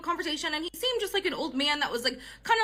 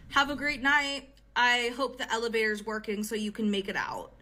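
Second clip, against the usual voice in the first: very serious; 4 semitones lower than usual. Retold or imitated. Date seeing woman off with a veiled threat, very serious. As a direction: quote him gravely, starting unhurried. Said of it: "very serious again and goes".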